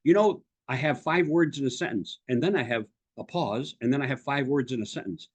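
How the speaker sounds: "five words in a sentence" in a measured block, then a pause; choppy phrasing. Retold or imitated. Coach mimicking other speakers, choppy "five words in a sentence" chunks. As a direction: imitate evenly chunked talk, stopping after "five words in a sentence". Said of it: "there's other people who talk".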